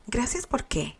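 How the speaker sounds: a touch of wide-eyed delight; innocent, enraptured. A narrator's reading. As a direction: ask innocently, quietly thrilled. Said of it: "Preguntó inocentemente, pero extasiada".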